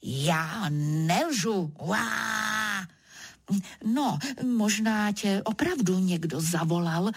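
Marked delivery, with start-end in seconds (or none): 1.8-2.9 long, held mock roar; storyteller's half-hearted roar; leopard roar. A narrator's reading. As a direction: draw out a "waah" like a leopard. Leopard roars after its reply.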